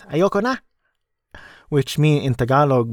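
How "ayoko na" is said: "Ayoko na" pitched much higher, rising on "na"; mock exclaim. Imitating his wife's joking outcry at the movie, "Ayoko na" high and rising. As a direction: imitate a wife's playful outburst, voice jumping up on "Ayoko na". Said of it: "My wife at this point exclaims".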